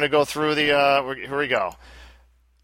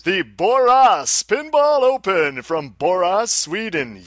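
announcer voice; 4 semitones higher, 4 dB louder, slower than usual. Shown as a demonstration. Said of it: "announcer voice".

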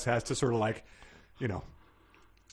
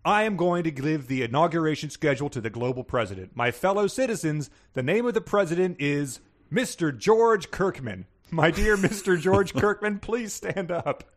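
lightly voiced ceremonial announcer; grand announcer; 5 semitones higher than usual. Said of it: "So she says".

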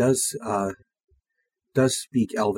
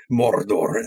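imitating Elijah Wood; 3 semitones lower than usual. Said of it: "the way that Elijah Wood says Mordor".

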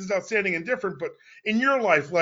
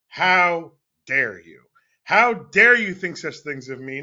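slow, loud, hammed-up indignation; theatrical mock offense, slow and loud; mock outrage; 4 semitones lower, 6 dB louder, slower than usual. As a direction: play the wounded diva, drawing it out. Mock outrage at a listener's assumption.

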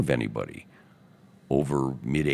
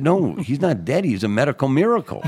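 much higher and louder, laughing through it; 13 semitones higher, 8 dB louder than usual. Real, not acted. Telling the crying maid his friend lives, laughing. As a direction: burst out laughing as you correct her.

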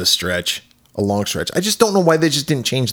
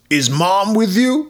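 mocking voice; 8 semitones higher, slower than usual. Voicing the brother.

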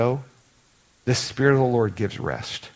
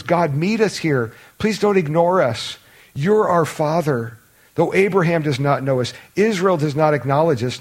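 pleading plea; 4 semitones higher, 3 dB louder than usual. Acted. Preacher voicing the psalmist's cry for mercy, pleading. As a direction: beg God to meet us, pressing each line up. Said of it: "I just want you to hear the tone here".

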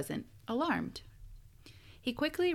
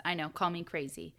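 usual speaking voice

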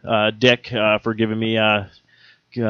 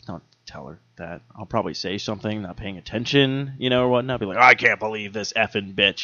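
quiet aside; 2 semitones lower, 7 dB quieter than usual. Retold or imitated. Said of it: "I'm like".

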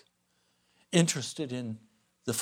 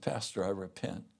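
softly repentant caller; 6 semitones lower, 5 dB quieter than usual. Retold or imitated. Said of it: "he said".

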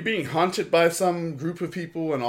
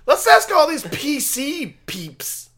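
announcer voice; 8 dB louder, slower than usual. Acted. Show intro announcer voice.

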